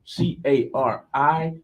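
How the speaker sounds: each letter spelled out slowly and carefully; host repeats the corrected spelling for listeners, slowly. Real, not acted. Slow careful spelling. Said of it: "No, no E".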